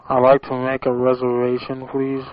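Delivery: talking around a pen; words round a pen held in mouth. Real, not acted. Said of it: "I got my Jack Masterson pen in my mouth".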